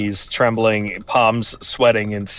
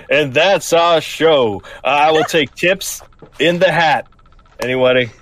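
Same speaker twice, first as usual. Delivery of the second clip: a hint of street performer; showman bow; 4 semitones higher than usual. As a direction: take a bow and work the crowd. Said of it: "I will bow and I will say".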